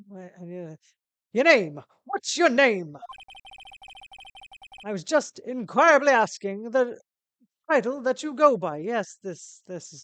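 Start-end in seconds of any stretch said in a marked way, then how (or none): 1.3-8.8 loud, theatrical big-shot voice; pompous CEO, impatient. Acted. CEO asking a visitor's name, pompous and impatient. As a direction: boom each grand word self-importantly.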